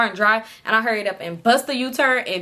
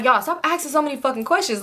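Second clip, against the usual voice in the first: higher-pitched, fed-up complaint; retold irritation; 5 semitones higher than usual. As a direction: act out being fed up with the questions. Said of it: "I'm just irritated".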